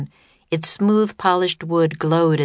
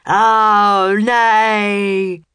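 loud higher spell shout; 5 semitones higher, 6 dB louder than usual. A narrator's reading. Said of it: "shouted a spell".

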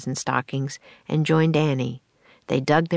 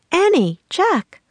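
called from a distance, higher, louder and slow; calling out; 13 semitones higher, 5 dB louder, slower than usual. Acted. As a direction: call the children from across the shore. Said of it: "a voice called".

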